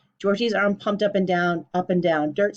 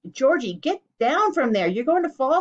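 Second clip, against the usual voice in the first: worried cry; 7 semitones higher, 4 dB louder than usual. A narrator's reading. Girl calling up the tree, worried cry. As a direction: plead with him to come down. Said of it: "cried Petulance".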